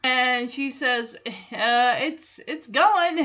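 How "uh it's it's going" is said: halting, drawn-out mock awkward reply; imitating an awkward, stumbling answer. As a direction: stammer it slowly and a bit loudly. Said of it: "it gets even more awkward".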